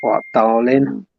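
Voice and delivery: slow, drawn-out London "What, darling?"; London accent. Pretend. Friend asked for a London accent, answers in slow London accent. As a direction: lay on the London charm, unhurried. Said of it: "Erin, can you do a London accent?".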